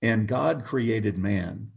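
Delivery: very slow, solemn intoning of a stranger's words; slow solemn quote. Retold or imitated. To a friend on a crowded sidewalk, slow solemn intoning. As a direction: intone it slowly like a street preacher.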